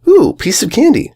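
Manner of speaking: muffled. A narrator's reading. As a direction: mouth full, muffled with a bit. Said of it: "came out a little muffled with a bit in her teeth".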